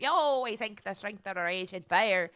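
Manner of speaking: slow fake British accent, lightly done; mock British accent. Retelling what someone said in a British accent, slow mock accent. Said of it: "said in a British accent".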